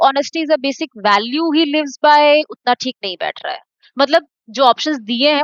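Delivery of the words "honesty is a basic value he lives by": very slow, each word set apart; slow read-aloud. Shown as a demonstration. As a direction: test the option by reading it in slowly. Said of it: "teacher tries the option in sentence". (बहुत धीरे पढ़कर परखना)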